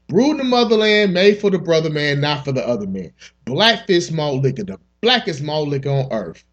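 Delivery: hammed-up liquor commercial; mock ad read. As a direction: sell it like a late-night ad.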